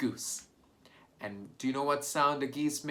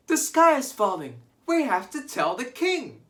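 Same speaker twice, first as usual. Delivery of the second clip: panicked shout; 12 semitones higher, 8 dB louder than usual. Acted. Birds panicking in story.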